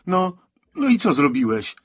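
high, loud angry challenge; furious reproach. A narrator's reading. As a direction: demand an answer, voice jumping up. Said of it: "Franek z furią przekręcił kluczyk".

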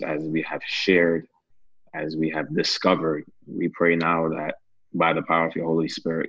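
earnest, steady prayer voice. Acted. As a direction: pray it out with fervour. Leads a closing prayer.

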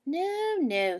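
firm motherly no, no; mother rabbit shutting down the idea; mother says no. Acted.

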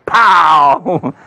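explosive, drawn-out pow; shouted impact noise. Acted. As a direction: punch out a comic-book hit sound. Sound effect of the blow.

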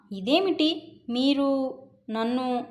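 soft, slow, swallowing the words; hushed and slow, the words dying away; words trailing off swallowed. Acted. Bewildered wife falters to husband, slow and hushed. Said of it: "మాటలు మింగేశాను".

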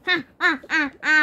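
staccato hero's ha-ha; hammed-up victory chuckle; boastful laugh. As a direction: laugh proudly at your own feat. Boasting hero laughs after victory.

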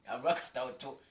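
loud startled "Ei, ai" then a quick quip; a jokey cry of alarm at the tick; excited exclamation. Retold or imitated. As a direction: exclaim it with a jolt. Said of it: "me ka me sɛ".

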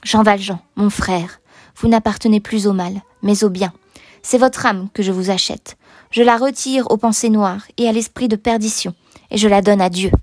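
measured, grave pronouncement; solemn. A narrator's reading. Bishop redeems the convict's soul, solemnly. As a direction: speak as if consecrating a soul. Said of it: "avec une sorte de solennité".

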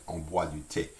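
"thé" said tay, with a plain T; French "on boit du thé" with a hard T in "thé". Shown as a demonstration. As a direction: model "thé" without any TH sound. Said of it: "it's pronounced like a T".

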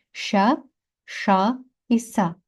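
Ша, ша, са said apart as palatal sh, retroflex sh, plain s; careful teacher's contrast of two sh sounds and s; three distinct sibilants. Shown as a demonstration. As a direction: demonstrate each sibilant of Ша, ша і са separately. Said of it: "У нас є три шиплячих".

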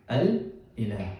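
slow, deliberate "Al-Ilah", each syllable laid out; careful Arabic word. Shown as a demonstration. Teacher to class, showing the original word, slow and deliberate. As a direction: spell out "Al-Ilah" slowly for the students. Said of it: "So the word originally was".

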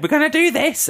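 high-pitched teacher imitation; horrible teacher. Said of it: "the third thing she said".

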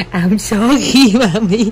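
slow, sing-song little sorry; drawn-out child apology. Retold or imitated. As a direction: stretch it out like a sleepy toddler. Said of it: "con nói". (giọng bé xin lỗi kéo dài)

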